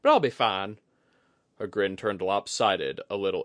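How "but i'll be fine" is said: high, loud character voice; candid woman confiding. Acted. Woman admitting mounting pressure to companion, candid. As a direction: confide the strain, then shrug it off.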